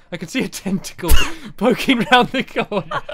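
laughing. Real, not acted. Spots squid hiding.

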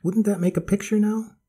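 put-on high, eager old lady; grandma voice. A narrator's reading. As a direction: point it out like a delighted grandma. Grandmother admires the scene.

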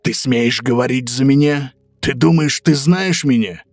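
raging wolf, rising to shouts; furious big bad wolf rant; angry wolf.

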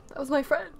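mildly upset, questioning protest; sad. Real, not acted. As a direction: say it with a touch of hurt disbelief. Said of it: "I'm, I'm actually sad".

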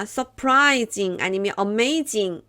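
surprising and amazing said very slowly; slow English words. Shown as a demonstration. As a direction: stretch out each English word. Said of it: "놀랍다".

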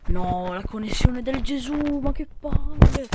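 high, slow, loud exasperation; frustrated groan. Real, not acted. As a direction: drag out the annoyance. Connection drops mid-game.

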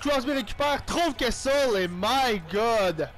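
lively sports-caster call of the action; commentating his own match as it unfolds; play-by-play commentary. Acted. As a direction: call the game like a TV announcer. Play-by-play of own hockey game.

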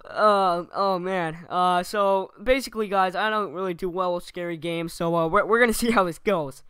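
loud, pumped-up gamer streamer voice; hyped YouTuber intro. Pretend. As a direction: perform a cheesy Let's Play intro. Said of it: "I did a little demo reel for you guys".

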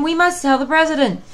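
high, loud hen insisting; clucking hen. Acted. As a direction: cluck it urgently. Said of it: "clucked Chicken Licken".

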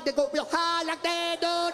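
mock Vietnamese accent lifting upward; high-toned Vietnamese accent demo; going real high. Shown as a demonstration. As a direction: lift "high" up and hold it. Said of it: "Vietnamese people go real high".

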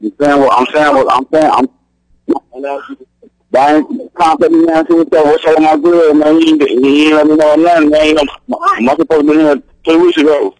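muffled caller on a bad phone line. Real, not acted. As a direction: sound like talking through a wall. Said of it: "You sound muffled".

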